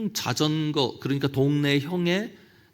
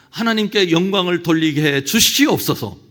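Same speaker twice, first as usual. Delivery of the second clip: mock prayer; 2 semitones higher, 4 dB louder than usual. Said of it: "재밌는 저 기도를 제가 한번 소개해".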